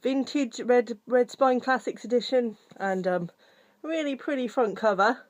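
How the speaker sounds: puffing after running up stairs; out of breath. Real, not acted. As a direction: talk while catching your breath. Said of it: "I'm out of breath".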